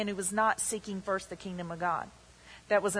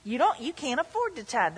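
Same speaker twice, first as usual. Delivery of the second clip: stranger's voice; 2 semitones higher than usual. Retold or imitated. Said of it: "That's the voice of a stranger".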